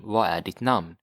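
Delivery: Vad är ditt namn repeated at normal speed; teacher repeats the phrase that sounds off; Swedish question. Shown as a demonstration. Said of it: "it sounds a bit off".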